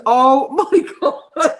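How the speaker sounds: slow, laughing mid-phrase; real laughter. Real, not acted. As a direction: laugh splits the words. Laughing at the memory.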